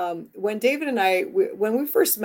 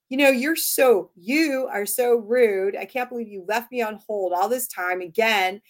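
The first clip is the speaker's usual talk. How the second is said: accusing tone. Retold or imitated. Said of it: "with a tone".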